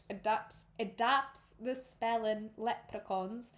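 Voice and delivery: slow, careful Irish accent; corrected Irish attempt. Shown as a demonstration. Reader correcting the Scottish slip, slow Irish accent. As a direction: redo "adapts" in deliberate Irish. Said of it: "no, that was Scottish".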